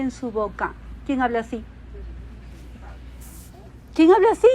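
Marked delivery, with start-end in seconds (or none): 1.0-1.6 soft question. Acted. Rhetorical question asked twice. 3.9-4.5 louder and higher, a ringing challenge to the room; pitched-up, louder repeat of ¿Quién habla así?; raised challenge. Acted. Rhetorical question asked twice.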